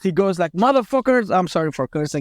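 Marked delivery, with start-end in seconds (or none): 0.6-1.3 mild mock blast, pitched up; higher-pitched angry curse, held in; retold outburst. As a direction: imitate a father blowing up, without shouting. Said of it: "he blasts".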